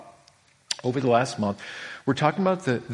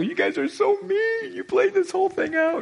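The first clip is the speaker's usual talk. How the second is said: much higher mock-indignant parent voice; parents scolding. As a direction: tease him like mom catching him out. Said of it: "my mom and dad go".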